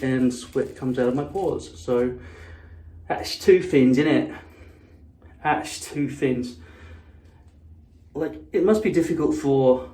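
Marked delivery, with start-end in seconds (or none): 3.1-4.4 put-on Cockney accent. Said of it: "that kind of Cockney accent". 5.4-6.6 slow Cockney imitation; Cockney accent. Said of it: "that kind of Cockney accent".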